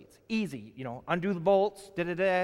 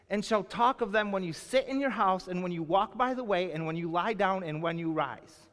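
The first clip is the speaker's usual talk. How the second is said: scripture reading. Acted. Reads the verse aloud.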